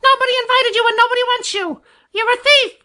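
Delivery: very high-pitched screeching jay; furious, squawking character tirade; excited screaming. A narrator's reading. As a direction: rant in a piercing bird screech. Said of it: "the louder he screams".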